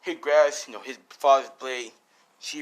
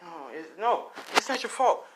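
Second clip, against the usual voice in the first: put-on high, rising child voice; protesting son; 4 semitones higher than usual. Son absolving his dying father, high protest. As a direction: climb higher as you protest.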